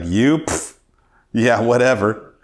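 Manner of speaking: mock dismissive scoff with a puff. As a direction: imitate the dealer brushing him off. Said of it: "he's like".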